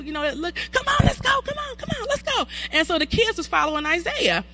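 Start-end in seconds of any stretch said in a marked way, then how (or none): 0.7-2.5 put-on high impatient kid voice; hurrying someone. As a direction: urge them along like a child. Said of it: "that's what kids do".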